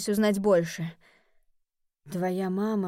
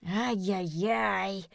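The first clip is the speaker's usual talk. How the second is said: slow drawn-out goat bleat; Robert ends his sentence in a bleat; much slower than usual. Acted. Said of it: "закончил предложение блеянием".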